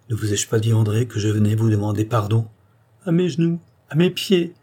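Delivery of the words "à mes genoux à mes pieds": high, incredulous repetition; stunned disbelief. A narrator's reading. Andrée repeating it as Charny kneels, stunned disbelief. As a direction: repeat it, unable to believe your eyes. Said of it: "comme une femme qui ne peut croire à ce qu'elle voit".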